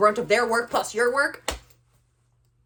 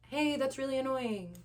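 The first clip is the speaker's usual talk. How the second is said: soft, deliberately controlled voice; calm tone demo; 10 dB quieter than usual. Shown as a demonstration. Controlling her tone while ranting, forced calm. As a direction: hold the tone down, unconvincingly calm. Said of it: "my tone of voice".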